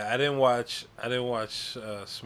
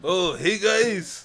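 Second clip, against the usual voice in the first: much higher, louder bad Irish accent; attempted Irish accent; 7 semitones higher, 8 dB louder, much slower than usual. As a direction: squeak out a failed Irish accent. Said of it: "do it with an Irish accent".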